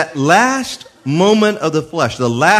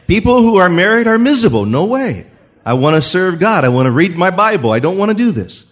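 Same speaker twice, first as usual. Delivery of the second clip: higher-pitched mock protest; protesting to God; 4 semitones higher than usual. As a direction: push back at God, pitch raised. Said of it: "I'm telling God, "No way".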